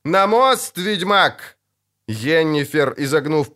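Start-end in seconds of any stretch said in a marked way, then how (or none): 0.1-1.6 urgent call. A narrator's reading. Urgent order during rockfall.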